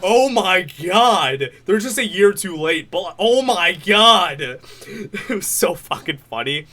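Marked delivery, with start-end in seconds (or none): 0.0-1.5 slow, louder drawn-out astonishment; amazed reaction. Retold or imitated. Fan retelling his reaction to the joke, drawn-out amazement. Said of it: "I was like". 3.2-4.4 louder, drawn-out disbelief; amazed reaction. Retold or imitated. Fan still marvelling at the joke, drawn-out amazement.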